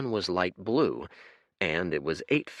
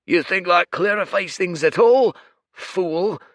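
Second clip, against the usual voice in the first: booming creature; 11 semitones higher, 9 dB louder than usual. Acted. Red giant bellowing at the rowing stranger, furious roar. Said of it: "the red one grunted".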